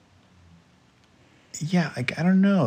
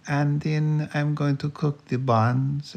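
put-on higher-pitched, slow German accent; Jürgen's German accent; 7 semitones higher, slower than usual. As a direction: recite baking steps in an overdone German accent. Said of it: "Jorgen ... see, that is like a".

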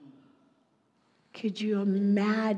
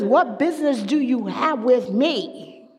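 a touch of the tormented man's challenge; possessed man; 3 semitones higher, 5 dB louder than usual. Acted. Possessed man challenging Jesus, loud and indignant. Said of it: "he's asking Jesus".

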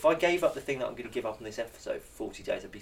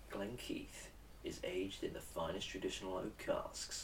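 slow, soft late-night radio voice; smooth radio ad read; 3 semitones lower, 12 dB quieter, slower than usual. Acted. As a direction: croon it like easy listening radio. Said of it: "some smooth music behind you".

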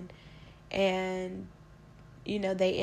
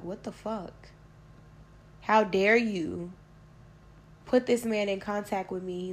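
outraged demand; 5 dB louder than usual. Retold or imitated. Speaker confronts her ex-boyfriend for giving out her number, outraged. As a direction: tell him off, outraged, stretching every word.

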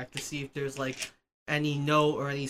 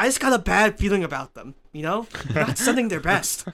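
villain voice; 4 semitones higher than usual. Acted. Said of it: "Shredder's like".

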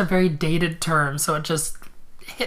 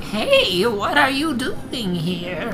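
calling out; 6 semitones higher, much slower than usual. Acted. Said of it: "a voice calls".

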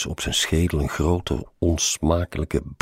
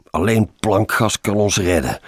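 raised, louder, frantic urgency; overwrought cry; 5 semitones higher, 6 dB louder than usual. A narrator's reading. Colleague racing late to Amersfoort, overwrought cry. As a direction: cry out as if at breaking point. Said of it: "riep Roosjes overspannen".

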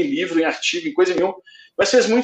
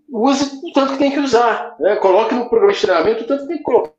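glitchy, cutting-out call audio; choppy connection; 3 semitones higher than usual. Real, not acted. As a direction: voice breaking up online. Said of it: "tá, tá picotando".

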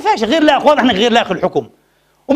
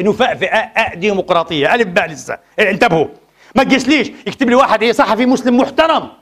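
normal talking voice

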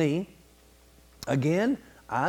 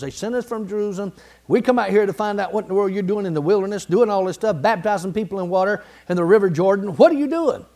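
mock demanding priests; 2 semitones higher, 3 dB louder, faster than usual. Preacher voicing priests questioning John, louder and faster. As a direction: press him like impatient priests from Jerusalem.

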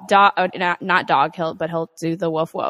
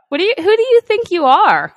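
mock scolding; 9 semitones higher, 8 dB louder than usual. Mock scolding toddler who hits.

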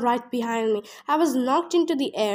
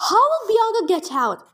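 high, louder panicked question; yelled; 7 semitones higher, 5 dB louder than usual. A narrator's reading. Zoe yelling in fear while fleeing, loud. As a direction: shout it as you run from danger. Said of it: "She yelled".

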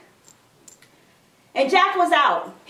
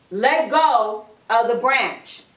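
slow, lower-pitched, measured order; firm repeated command; 5 semitones lower, slower than usual. Acted. God insisting that Jack let go, firm command. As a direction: spell it out slowly and firmly.

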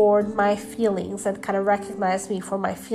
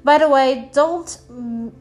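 blocked nose from allergies; talking through a stuffy nose. Real, not acted. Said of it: "I've got an allergy, so if I sound really nosy".

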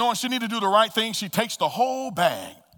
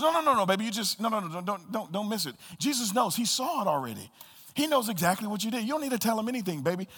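gentle reassuring; 3 semitones higher, 4 dB quieter than usual. Retold or imitated. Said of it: "And Mandy goes".

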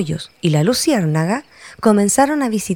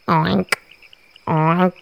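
mild little oink; sparrow oinking. Acted. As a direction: oink like a pig. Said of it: "agregó".

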